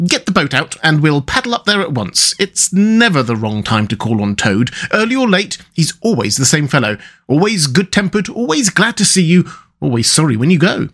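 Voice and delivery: eager, lilting recommendation of a friend; lively storybook animal dialogue; good-natured rat. Acted. Rat praises Toad in story.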